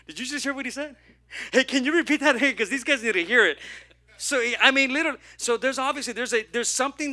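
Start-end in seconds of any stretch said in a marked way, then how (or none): 0.1-3.6 louder, higher, laughing excitedly; Jesus laughing to his disciples; laughing amazement. Acted. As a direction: share the thrill with a laugh.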